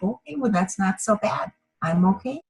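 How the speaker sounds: soft, gentle self-talk; softly relieved inner voice; soothed self-reassurance. Acted. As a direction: reassure yourself quietly, easing off the worry. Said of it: "and it's very healing".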